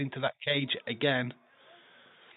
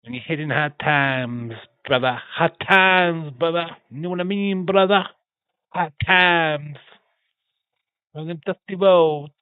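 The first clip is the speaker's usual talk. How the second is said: wrestler promo voice; 4 semitones higher, 8 dB louder than usual. Retold or imitated. Wrestler promo catchphrases, loud.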